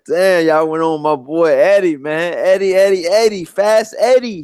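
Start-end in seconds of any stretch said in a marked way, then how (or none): 2.4-4.4 playful teasing call. Real, not acted. Teasing defence of Eddie Hearn.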